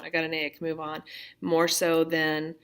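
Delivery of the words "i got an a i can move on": quick, dismissive rattle-off; rushed repeat. Retold or imitated. Teacher mimicking a student racing past the grade, fast. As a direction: hurry through it like a kid done with school. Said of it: "they wanna just check that off".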